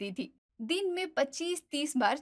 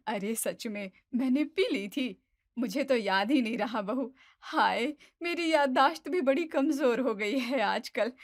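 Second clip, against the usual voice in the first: innocently. Acted. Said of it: "मासूमियत से बोलती है".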